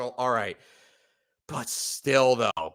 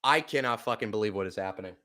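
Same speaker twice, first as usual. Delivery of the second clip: stunned mutter; 2 semitones lower, 6 dB quieter, faster than usual. Real, not acted. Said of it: "I'm actually so pissed".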